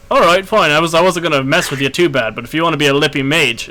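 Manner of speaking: a lightly voiced giant losing patience; villain retort. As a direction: sneer at the mouthy mage. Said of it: "and he's like".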